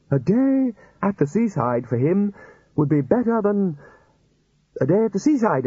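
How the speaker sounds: high-pitched pleading wizard; wheedling old wizard. Acted. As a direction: sell the seaside trip sweetly. Chair voiced high.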